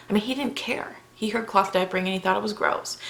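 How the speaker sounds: hushed whisper. Real, not acted. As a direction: whisper so nobody wakes. Late night, house asleep.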